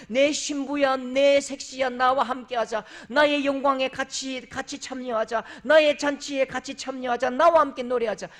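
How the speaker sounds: loving call to a bride. Retold or imitated. God calls his bride to share his glory, exultant and loud. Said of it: "아가스에 나오는 말씀이라고요".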